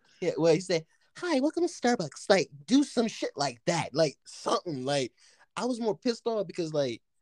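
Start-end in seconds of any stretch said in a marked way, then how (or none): 1.2-2.3 very high, put-on girly feminine voice. Showing someone what line to try, in a put-on feminine voice. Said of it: "I could change my voice to feminine".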